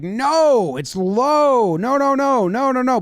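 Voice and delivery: high, insistent string of objections; imitated protest. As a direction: pitch it up and object repeatedly. Catcher protesting the challenge.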